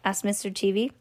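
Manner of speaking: plain reading voice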